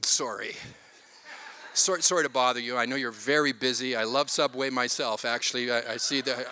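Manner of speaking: mock timid apology to security; overly polite Canadian. Dad pretending to politely apologize to mall security, timid. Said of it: "super duper Canadian perspective".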